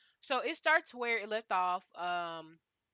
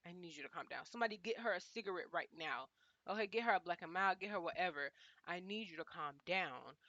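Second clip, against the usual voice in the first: soothing Paris; 2 semitones lower, 5 dB quieter than usual. Retold or imitated. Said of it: "I was just like".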